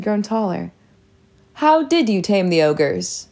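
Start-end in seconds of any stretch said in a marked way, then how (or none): 1.5-3.3 too loud. Acted. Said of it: "His voice was too loud again".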